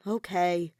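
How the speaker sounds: reluctant sighed okay; sighing okay. Acted. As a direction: give in with a sigh. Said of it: "Shuichi sighed".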